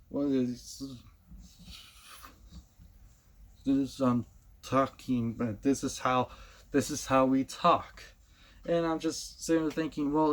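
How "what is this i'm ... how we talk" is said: slow, drawn-out mock cartoon character; a light imitation of overacted dialogue. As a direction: lampoon how the cast delivers lines. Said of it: "constantly talking like this".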